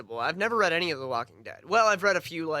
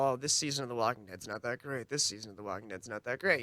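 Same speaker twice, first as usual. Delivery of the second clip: mocking complaint; 4 semitones lower, 7 dB quieter than usual. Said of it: "everybody's been saying".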